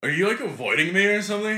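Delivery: mock a needy guy in Valley Girl tones; Valley Girl-like gay voice. Customer confronting the man avoiding him, put-on Valley Girl voice. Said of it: "your gay voice kinda sounds, like, your Valley Girl voice".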